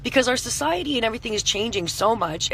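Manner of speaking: hoarse voice after a night of screaming; rough, strained voice; scratchy voice. Real, not acted. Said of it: "I'm so sorry for my scratchy voice".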